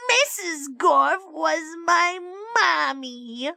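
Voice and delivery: slow, high, croaky sore-throat squawk; hoarse donkey with a French accent. Acted. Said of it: "donkey ... sore throat ... French accent".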